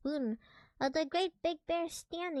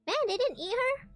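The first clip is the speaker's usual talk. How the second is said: surprised; 12 semitones higher, 6 dB louder than usual. Real, not acted. Child shocked at story end.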